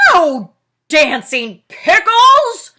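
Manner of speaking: slow, very loud roar. Acted. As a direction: Bear rejects the fairy pickles, roaring. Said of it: "Bear roared".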